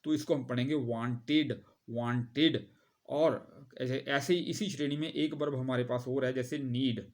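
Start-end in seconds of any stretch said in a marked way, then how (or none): 0.8-2.7 वांटेड said with a full extra "-ed" syllable; वांटेड ending clearly in "id"; वांटेड as "want-id". Shown as a demonstration. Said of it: "आईडी की sound निकलती है".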